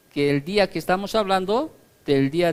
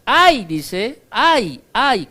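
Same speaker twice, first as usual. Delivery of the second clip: mock wail of woe, louder; wailing lament; 3 semitones higher, 5 dB louder, much slower than usual. Preacher voicing the prophet's lament, a raised wail. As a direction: cry out ay in dread. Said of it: "ah, tiembla".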